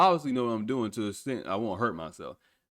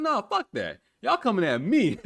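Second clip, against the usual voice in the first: mock angry retort; 9 semitones higher, 4 dB louder than usual. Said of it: "I was like".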